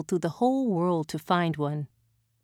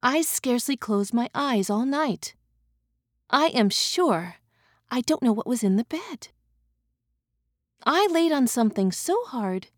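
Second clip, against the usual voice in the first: cartoon princess; 3 semitones higher than usual. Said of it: "said the princess".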